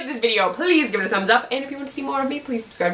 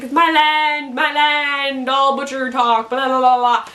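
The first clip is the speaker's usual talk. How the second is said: higher, lightly hammed-up rejoicing; mock rejoicing; 4 semitones higher than usual. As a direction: crow in mock triumph, trailing into blather. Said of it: "like, rejoicing".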